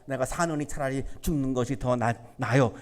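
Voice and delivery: low, soft mock lament; despairing lament. A sufferer asking his mother why he was born, lightly despairing. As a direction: sigh out a weary wish to die. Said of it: "이런 마음 가질 때".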